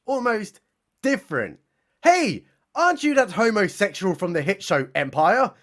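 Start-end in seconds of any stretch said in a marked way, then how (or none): 2.0-5.5 put-on peculiar British accent. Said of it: "in a rather peculiar accent".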